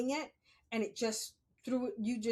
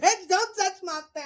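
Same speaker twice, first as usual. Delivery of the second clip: high, loud mock yell; loud retold snap; 8 semitones higher, 9 dB louder than usual. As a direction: fling it at her with outrage. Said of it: "I was like".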